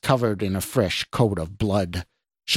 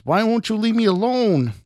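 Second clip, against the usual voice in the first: very high, anguished cry; shouted; 12 semitones higher than usual. A narrator's reading. Scott begs the stranger's voice to leave, shouting. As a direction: wail the question in desperation. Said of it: "Scott shouted".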